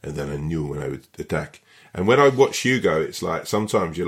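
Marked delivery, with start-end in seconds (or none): 0.0-1.6 French footballer impression in a badly done accent. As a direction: have a rough go at a French accent. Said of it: "I'll try and do a bad French accent, Sleet-esque French accent".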